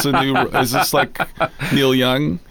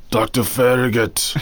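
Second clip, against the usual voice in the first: Doctor Hatake voice; slower than usual. Retold or imitated. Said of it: "Doctor Hatake".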